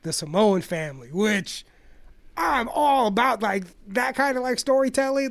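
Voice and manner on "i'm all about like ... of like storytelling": excited. Real, not acted. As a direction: gush about what you love. Enthusiastic about storytelling.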